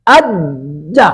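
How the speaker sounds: अज्जा said slowly, holding the doubled j; अज्जा in slow, deliberate syllables; qalqalah demonstration. Shown as a demonstration. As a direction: linger on the closure in अज्जा, then release it. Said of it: "अब यहाँ पे जरा गौर कीजिए".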